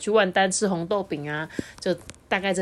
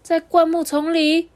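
slow, high amazed thought; wide-eyed wonder; 11 semitones higher, 6 dB louder, slower than usual. Acted. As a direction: gasp at the secret. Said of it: "他心里想说".

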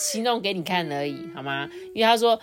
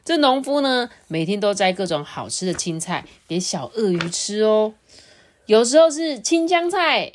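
lively storyteller with lifted openings, settling at phrase ends; children's storytelling; 4 semitones higher, 4 dB louder than usual. Acted. Adult begins the farmer and crocodile tale for a child, storytelling. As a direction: read it to a small child.

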